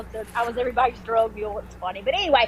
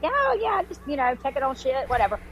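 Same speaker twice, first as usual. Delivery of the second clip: fake casual; 3 semitones higher than usual. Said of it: "come back out and like".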